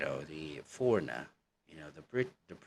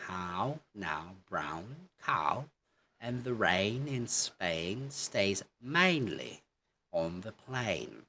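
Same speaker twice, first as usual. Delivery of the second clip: a mild British English accent, slow; British English demo; slower than usual. Shown as a demonstration. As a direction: say it slowly like the Queen's English. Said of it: "that's how they pronounce it in English".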